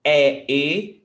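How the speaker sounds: É open and loud, then e closed. Shown as a demonstration. Teacher testing learners on the difference, open then closed. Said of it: "can you spot the difference?".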